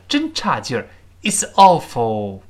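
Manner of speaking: ordinary talk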